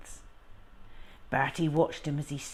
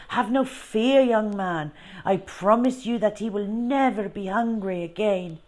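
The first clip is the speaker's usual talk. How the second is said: high, loud, grand showman with French flair; circus Frenchman; 4 semitones higher, 5 dB louder than usual. Acted. Frenchman reassuring Bertie grandly, high and loud. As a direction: promise the boy everything with big showman charm.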